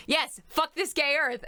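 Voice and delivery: high, hammy Snake impression. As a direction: do a hammed-up Snake. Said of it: "Northern Snake voice".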